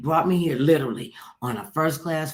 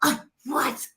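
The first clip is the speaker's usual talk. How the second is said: higher-pitched parody of picky judges; mocking critics; 8 semitones higher than usual. Actress mimicking casting people who reject her look, mocking. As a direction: mimic contradictory verdicts, climbing into disbelief.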